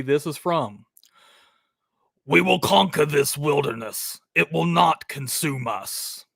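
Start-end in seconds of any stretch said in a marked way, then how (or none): 2.3-6.3 lightly voiced solemn vow, a bit slowed; hint of a grave puritan father; understated solemn movie line; movie character quote. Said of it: "This dude's voice is just insane".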